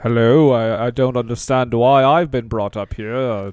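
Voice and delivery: lightly put-on stately British actor; Ian McKellen. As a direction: play a puzzled British thespian, lightly. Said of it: "Sir Ian McKellen".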